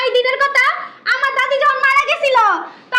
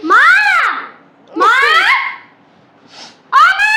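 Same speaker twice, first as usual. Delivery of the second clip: calling out; 3 semitones higher, slower than usual. Acted. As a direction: shout for mom across the house. Child calling mother repeatedly. (মাকে ডাকা চিৎকার)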